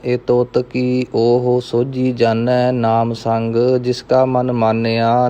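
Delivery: measured Gurbani recitation, evenly pitched; scripture recitation. Acted. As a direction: recite verse by verse, drawing out line endings. Recites scripture between explanations. (ਸਹਿਜ ਨਾਲ ਗੁਰਬਾਣੀ ਪਾਠ)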